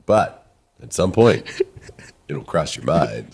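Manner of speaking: drawn out like a cheesy charmer; slow smooth line. Retold or imitated. Ash flirting with Kelly, slow low smooth delivery. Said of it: "but he tells her".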